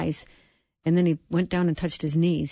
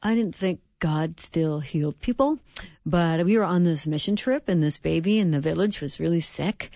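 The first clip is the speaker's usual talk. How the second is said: put-on slouchy teen. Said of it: "kind of his just kind of slouchy way".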